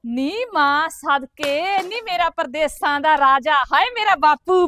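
slow, drawn-out fond greeting; loving welcome. Acted. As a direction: stretch each word, doting on him. Sister greets visiting brother. (ਪਿਆਰ ਨਾਲ ਲਮਕਾ ਕੇ ਸਵਾਗਤ)

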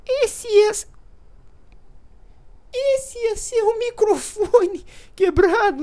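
very high, loud, slowly stretched squeak; squeaky little voice. Shown as a demonstration. Youtuber mocking his own broken mic in a squeaky voice. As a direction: drag the whole line out in a tiny high voice. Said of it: "e já falei do".

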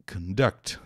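conduct stressed on DUCT, rising; conDUCT, weight on the last syllable; stress on second syllable. Shown as a demonstration. Teacher modelling the verb form for students, clearly. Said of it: "sílaba tônica é a segunda".

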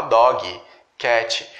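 dog and cat with an extra I at the end, dogui, kêti; wrong pronunciation. Shown as a demonstration. Teacher imitates the learners' wrong endings. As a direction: add the Portuguese vowel. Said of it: "colocar um I aqui no final".

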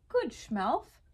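lightly voiced jolly approval, pitch swooping; a touch of a chuckle in the praise; Santa, chuckling approval. A narrator's reading. Santa praises Schmelf the elf, mild chuckling approval. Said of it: "chuckled Santa".

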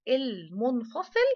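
المنفصل spoken slowly, syllable by syllable, falling at the end; drawn-out answer. Shown as a demonstration. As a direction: stretch out المنفصل slowly for the children. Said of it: "يلا حرف الكاف الإيه؟". (نطق بطيء وممدود لكلمة المنفصل)

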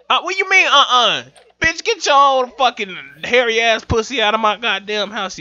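high, loud indignant rant; indignant yelling. Real, not acted. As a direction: tell her off loudly. Rejected, yells at her.

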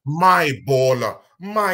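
drawn-out, loud mock quote; mocking echo of another speaker; mimicked quote. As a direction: stretch the words out slowly, mimicking him. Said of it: "look at what he said".

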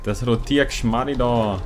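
slow, drawn-out Franconian twang on "Rotiergeschmarri"; mock Franconian accent. Gamer mocks a puzzle in Franconian dialect, slowly. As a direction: play the fake Franconian, dragging the words. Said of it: "Ich bin ja eh nur so ein Fake-Franke".

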